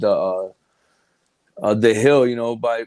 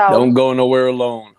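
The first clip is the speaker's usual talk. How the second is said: slow warning; 3 dB louder, slower than usual. Shown as a demonstration. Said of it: "How about that?".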